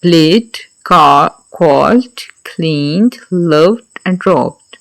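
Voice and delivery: प्लेड, called, cleaned, loved and robbed slowly, each ending in a voiced d. Shown as a demonstration. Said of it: "ड के साथ ending".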